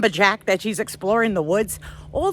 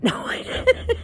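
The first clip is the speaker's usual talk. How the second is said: laughing; 12 semitones higher, slower than usual. Real, not acted. Admitting to viewers she lost composure, laughing. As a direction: break up laughing while saying it.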